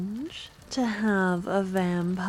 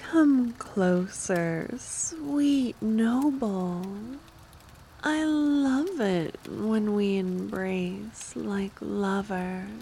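seductive. Acted. Vampire seducing noble.

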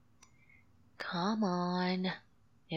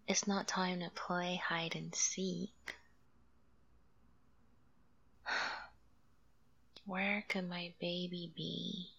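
whispered; 4 dB quieter than usual. Acted. Hushed searching.

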